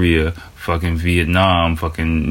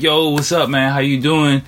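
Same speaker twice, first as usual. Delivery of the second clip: higher, friendly call of hello; casual street greeting; 7 semitones higher than usual. Retold or imitated. Greeting a stranger on the street, high and friendly. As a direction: greet him like a buddy.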